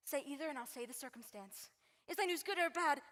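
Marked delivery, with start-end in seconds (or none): 2.1-3.0 louder, pressing demand; insistent. Acted. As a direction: push harder, demanding an answer. Juliet asks twice, pressing.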